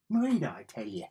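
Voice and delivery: light mock Irish lilt on "Moida, I tell you"; a hint of a stage Irishman saying "Moida"; jokey Irish "Moida, I tell you"; Irish accent. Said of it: "and then Irish".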